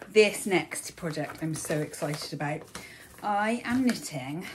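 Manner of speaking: puffing between words; out of breath. Real, not acted. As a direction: talk while catching your breath. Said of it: "I'm all out of breath now".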